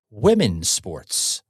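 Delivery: slow, stress on "Women"; slow emphasis. Real, not acted. Host driving home his point, slow and stressed. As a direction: lean on "Women" and draw it out. Host repeating slogan slowly.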